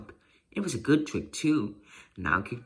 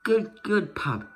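pleased praise; 8 semitones higher, 3 dB louder, slower than usual. Acted. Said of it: "Ben laughed".

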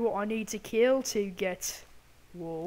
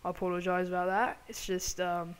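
put-on British accent, loosely imitated; bad British accent. Gamer apologising to British viewers for butchering it, mock British accent. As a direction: have a go at a British accent, badly. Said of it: "It is British accent".

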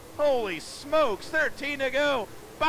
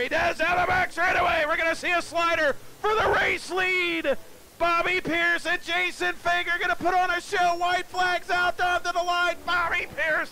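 excited call; 4 semitones higher than usual. Real, not acted. Announcer calling the final laps.

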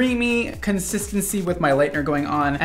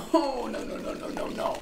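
laughing no; 7 semitones higher, 11 dB quieter than usual. Real, not acted. The strong scent hits.

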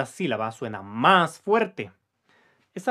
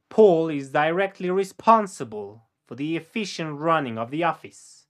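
slow model sentence; 4 dB louder than usual. Shown as a demonstration. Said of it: "Te toca decirlo después de mí".

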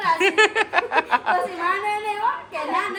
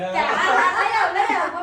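imitating eager dad; 6 dB louder, much slower than usual. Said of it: "પપ્પા કે".

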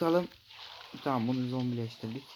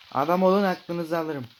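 loud, higher playful threat; mock threat; 5 semitones higher, 6 dB louder than usual. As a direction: threaten the fish like a bully. Threatens attacking fish.

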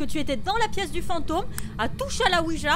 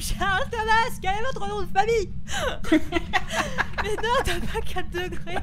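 laughing; 3 semitones higher than usual. Pretend. Mocking séance question, laughing.

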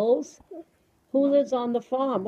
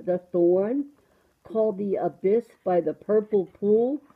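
measured, sing-song storybook reading; reading to children. Acted. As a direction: read a picture book to a small child. Reads a picture book to child.

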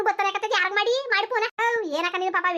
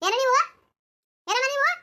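indignant shout; 6 semitones higher than usual. Acted. Bystander shouts at the women.

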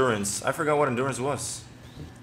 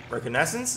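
"reconnaissance" with a rising, unsure end; questioning pronunciation; 3 semitones higher than usual. Real, not acted. Gamer unsure of a word he reads, questioning. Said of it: "Is that how you say it?".

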